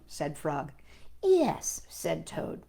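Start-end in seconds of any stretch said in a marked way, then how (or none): 1.2-1.8 much higher squeaky yes; Toad's voice. Acted. Toad agreeing with Frog. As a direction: pipe up as Toad.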